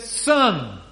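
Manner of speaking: a gentle, fatherly Son. Shown as a demonstration. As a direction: say it like a loving father to his boy. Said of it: "That's like caring, kind, fatherly".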